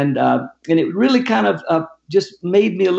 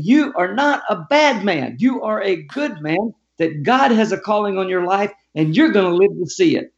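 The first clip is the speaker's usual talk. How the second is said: higher, measured insistence on each word; emphatic retold assurance; 5 semitones higher than usual. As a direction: drive it home word by word, pitched up. Retold firm address while tapping him.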